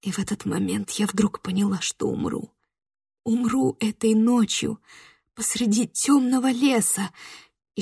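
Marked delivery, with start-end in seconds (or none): none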